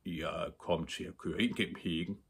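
soft, hesitant confession; subdued, embarrassed boy; sheepish. A narrator's reading. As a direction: own up meekly. Caught boy confesses to angry man.

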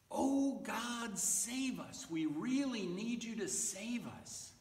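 high, mildly urgent appeal; cheering plea. Acted. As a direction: call on God as if sure of rescue. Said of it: "people were cheering like God had".

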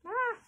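high-pitched "ah"; short high cry. A narrator's reading. Parents yelling at the factory owner, short high cry. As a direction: let out a brief high yelp.

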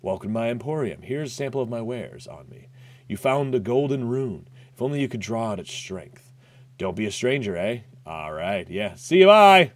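lightly voiced sly merchant; understated shifty trader; voicing Patches. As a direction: read the merchant's lines with a hint of a sneer. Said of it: "Hi, I'm Patches".

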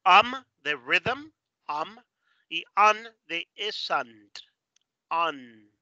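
UM and UN slowly drawn out as separate sounds; sound demo. Shown as a demonstration. Teacher teaches sounds from rhythm and isn't, slow demonstration. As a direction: model UM and UN slowly, each beside its example. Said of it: "Cada uno de esos sonidos".

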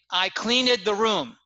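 "cleaned" said as two syllables, clean-ed; learner's slip, "cleaned" as CLEAN-id; mispronounced past tense. Shown as a demonstration. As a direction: sound the ED in "cleaned" separately. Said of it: "make a pronunciation mistake".

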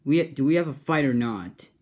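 loud defiant declaration; defiant shout. Acted. James defying Sir Trumpet Hat, loud defiant shout. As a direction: stand up to the villain at full voice.

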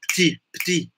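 "petit" as one syllable, PTI, twice; no vowel between P and T in "petit"; petit with dropped E. Shown as a demonstration. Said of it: "mas, é, no caso".

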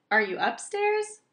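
high, loud shouted question; shouting. A narrator's reading. Owl asks if he is upstairs, shouting. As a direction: shout the question to another floor. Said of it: "he shouted".

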